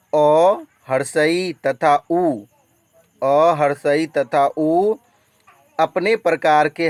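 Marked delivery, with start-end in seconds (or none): 0.1-4.9 slow dictation. Shown as a demonstration. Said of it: "teacher spells out vowels".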